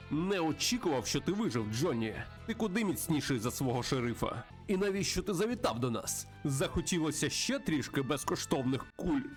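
sneering western outlaw with lilting questions; taunting villain. Acted. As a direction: taunt a rival before the gunfight. Plays taunting villain Crow.

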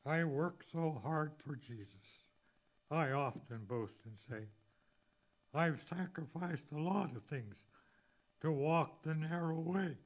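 preacher declaiming hymn verses to the church; fervent hymn recital. Acted. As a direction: build the hymn into a sermon climax. Recites second and third verses.

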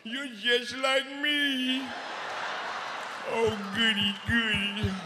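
put-on high childlike voice. Voicing girlfriend.

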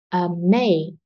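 "Amazing" with the middle "ma" strong, both ends light; stress on MAY. Shown as a demonstration. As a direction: lean on "ma" in "Amazing", let "zing" fall away. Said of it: "chỉ có may là cô cao giọng". (nhấn vào "ma" trong "Amazing")

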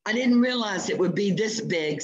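rattled hunter losing his nerve; frightened. Acted. Eccles panics before T-rex.

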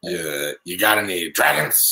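put-on low raspy old lady asking; deep scratchy voice. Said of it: "She's got a deep, scratchy voice".

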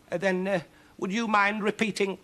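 high, hesitant witch voice; flustered witch. Acted. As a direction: ask haltingly, pitched high. Witch asks him to repeat.

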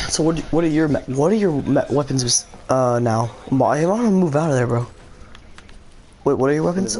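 loud, high over the noise. Real, not acted. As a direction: shout to be heard over gunfire. Shouting over fight in game.

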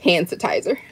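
put-on "Hand sanitizer" shortened like a child's "han-satizer"; Kyla's pronunciation. Shown as a demonstration. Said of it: "So I say it all the time".

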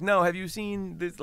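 high, slow, loud mock disbelief; incredulous. Actor pointing out his own looks to fans, incredulous. Incredulous reply to fans' question.

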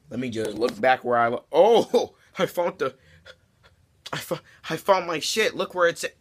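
high, loud sarcastic delight; over-the-top fake surprise; mock discovery. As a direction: pretend you just found it, hammed up. Sarcastically acts finding the purse.

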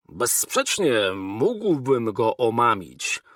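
ściszony, powolny, uniżony wywód konstruktora; z ostrożną powagą przed majestatem; lekko zagrany Trurl. Acted. Trurl addresses the king. (lekko zagrany Trurl, ściszony i uniżony)

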